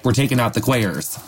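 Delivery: a lightly put-on Southern accent, mocking the slogan. Podcast host mocking the Nazi public in a Southern accent. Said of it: "I don't know why I did a Southern accent".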